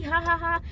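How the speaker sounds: spoken mock ha-ha-ha; imitated laugh. Driver laughing while speeding away, mock laugh. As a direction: fake his laugh in even beats. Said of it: "he laughing".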